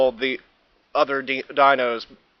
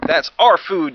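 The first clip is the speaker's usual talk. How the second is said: yelling; 4 semitones higher, 6 dB louder than usual. Acted. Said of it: "yelled the Apatosaur".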